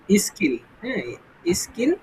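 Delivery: স্কিল with a plain unaspirated k; hard k in স্কিল, not kh. Shown as a demonstration. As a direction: say স্কিল with no puff after the k. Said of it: "খ করি নাই কিন্তু".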